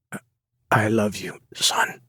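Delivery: weak halting rasp of a dying man; lightly voiced dying father, rasping; dying father's rasp. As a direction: push each word out with failing breath. Dying father's last words.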